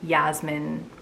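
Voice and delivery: Yasmin said as YAZ-min; z sound and short ending in Yasmin; English pronunciation. Shown as a demonstration. Vlogger on the version she dislikes, Yasmin in English pronunciation. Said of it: "the English pronunciation of Yasmin".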